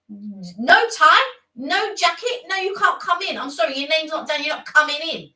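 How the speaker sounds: a hint of a stern hotel bouncer; doorman voice. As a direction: turn them away like a bouncer.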